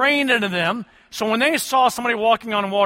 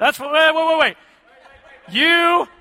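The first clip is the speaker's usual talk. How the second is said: loud mock stop; 8 semitones higher, 6 dB louder than usual. Preacher mocks congregation member's call.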